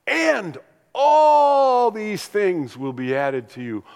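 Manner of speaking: choked up mid-quote; voice breaking. Real, not acted. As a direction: let the words crack with real emotion. Preacher moved quoting Jesus.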